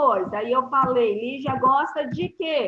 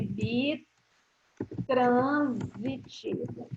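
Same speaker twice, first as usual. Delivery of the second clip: slow emphasis; 4 dB quieter, much slower than usual. Shown as a demonstration. Teacher stretches new term.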